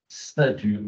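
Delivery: "Ceinture" with the opening s sound drawn out; demonstrating the S sound. Shown as a demonstration. Trainer sounding out where the s is heard, "Ceinture" with a stretched first consonant. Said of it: "Qu'est-ce qui peut faire le ce là-dedans".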